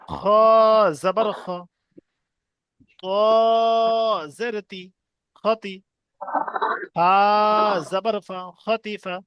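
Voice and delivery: slow drill with long-held letter names; deliberate, chant-like spelling aloud; spelling piece by piece. Shown as a demonstration. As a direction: stretch each letter, pause, then blend the syllables. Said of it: "বানানটা কেমন ভাবে করবো".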